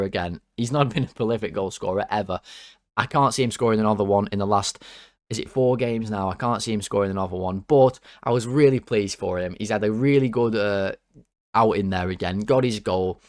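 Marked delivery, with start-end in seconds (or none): none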